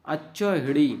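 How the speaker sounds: अच्छोहिड़ी with हि in the middle; short हि before ड़ी in अच्छोहिड़ी; correct pronunciation. Shown as a demonstration. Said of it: "अच्छोहाड़ी नहीं होता".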